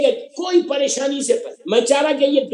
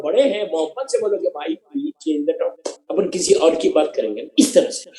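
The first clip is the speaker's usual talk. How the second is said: lovingly; 4 semitones lower than usual. Shown as a demonstration. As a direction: ask them kindly to stop. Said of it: "لیکن محبت سے بولو".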